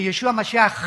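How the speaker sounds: "Yeshua Mashiach" with a strong guttural ch; Hebrew pronunciation. Shown as a demonstration. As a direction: lean on the final ch of "Mashiach". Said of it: "dándole mucho énfasis".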